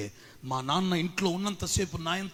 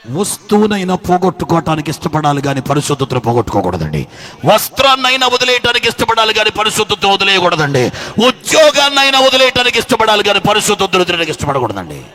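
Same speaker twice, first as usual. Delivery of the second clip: loud, driving sermon cadence, louder; preaching at full force; 3 semitones higher, 21 dB louder than usual. Acted. Preacher rousing the congregation to fear God, loud and driving. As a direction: hammer each line home to the church.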